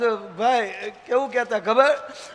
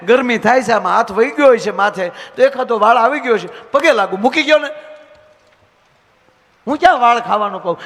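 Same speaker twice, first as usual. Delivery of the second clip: pleading wife; 3 semitones higher, 5 dB louder than usual. Retold or imitated. Wife begging her husband not to shout before the neighbours. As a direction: beg him to stop shouting.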